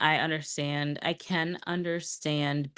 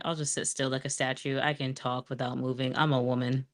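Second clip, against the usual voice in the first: lips still, talking through clenched teeth; talking through gritted teeth; 4 dB quieter than usual. Shown as a demonstration. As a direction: say it without moving your mouth. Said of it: "It's like talking through your teeth".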